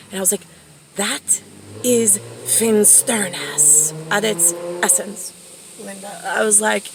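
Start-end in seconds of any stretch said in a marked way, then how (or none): 0.9-6.1 slow, drawn-out pronouncement; mock-grave pronouncement. Daughter answering her mother about darkness, slow mock-grave pronouncement. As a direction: spell it out slowly, word by word.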